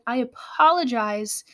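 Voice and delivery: "I apologize" said slowly in a mock French accent; hammed-up French accent on the apology. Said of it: "I have a terrible French accent".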